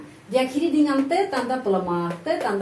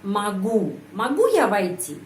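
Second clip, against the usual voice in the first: "могу" carries the peak of the question; intonation stress demo. Shown as a demonstration. Teacher names the stressed word, then models it on "могу". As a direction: stress "могу", let the rest fall. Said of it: "Penekanan intonasi berada pada kata".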